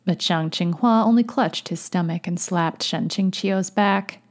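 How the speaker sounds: measured, fuller-voiced audiobook read; story narration. A narrator's reading. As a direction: narrate the tale steadily and clearly. Narrates fiction aloud.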